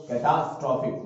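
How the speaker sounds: कैटास्ट्रॉफिक as ke-tas-trof-ik, falling end; model pronunciation. Shown as a demonstration. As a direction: say कैटास्ट्रॉफिक cleanly with a fall. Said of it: "pronunciation देख लो". (कैटास्ट्रॉफिक का साफ़ उच्चारण)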